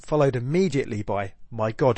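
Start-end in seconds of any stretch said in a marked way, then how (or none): 1.5-2.0 somber. Shown as a demonstration. Teacher reads the second "my God" as somber recognition. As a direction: settle "my God" into grave recognition. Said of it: "a more somber".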